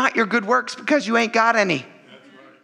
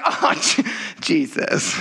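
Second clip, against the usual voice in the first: patronising; 3 semitones lower, slower than usual. Retold or imitated. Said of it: "he's like".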